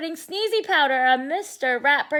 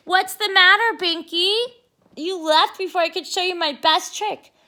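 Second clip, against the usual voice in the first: sly innocent; 6 semitones higher, 5 dB louder than usual. Acted. Arthur baits Binky.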